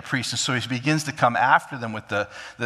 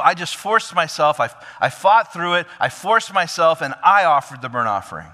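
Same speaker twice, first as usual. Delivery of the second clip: defensive rationalizing; 3 semitones higher, 4 dB louder than usual. Retold or imitated. Saul pleading his excuses to Samuel, raised and insistent. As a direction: insist you had no choice.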